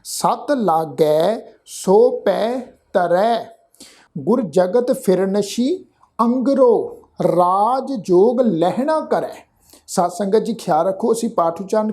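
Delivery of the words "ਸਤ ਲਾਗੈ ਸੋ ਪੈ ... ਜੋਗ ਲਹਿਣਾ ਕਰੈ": slow, measured chant of Gurbani verse; slow scripture recitation. Shown as a demonstration. Teacher reciting Gurbani slowly for the sangat. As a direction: recite each word slowly and with reverence.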